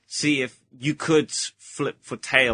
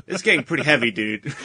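a hint of a stoned dude; stoner voice; 4 dB louder than usual. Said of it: "You totally got that stoner voice going".

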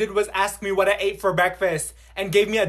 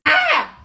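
high shriek; 7 dB louder than usual. Acted. Sudden scream in class.

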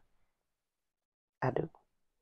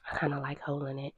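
whisper; 6 dB quieter than usual. Real, not acted. Quiet aside while handling mic.

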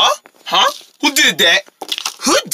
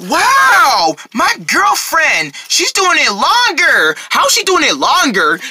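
amazed; 5 semitones higher, slower than usual. Acted. Friends marvel at girlfriend's longer flip.

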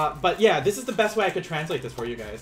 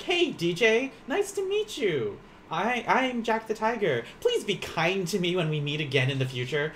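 overly formal greeting; 4 semitones higher than usual. Pretend. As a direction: greet a classmate absurdly formally. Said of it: "I could be like".

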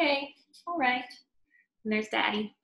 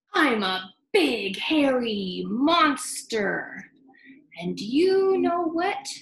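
louder teasing monster voice; playful monster daddy; 4 semitones higher, 3 dB louder, slower than usual. Acted. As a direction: tease like a growly daddy.

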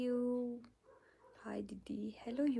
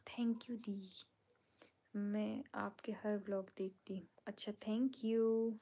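whispered comment reading. Real, not acted. Streamer whispering viewers' comments aloud to her fans. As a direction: hush it, others are asleep.

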